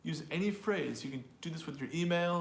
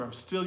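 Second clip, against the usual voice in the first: "still" punched louder; stress on STILL; 5 semitones higher, 3 dB louder than usual. Shown as a demonstration. Teacher offers another stress option, "still" emphasized. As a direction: hit the word "still". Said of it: "you can also stress the word still".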